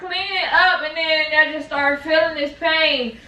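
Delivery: pained, scared wail. Real, not acted. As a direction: wail it through labor pain. In labor, scared and in pain.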